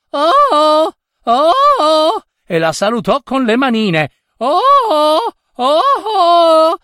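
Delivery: put-on very high, loud little child's voice; childlike calling. A narrator's reading. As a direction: call out like a tiny child. Reflection child calls to girl.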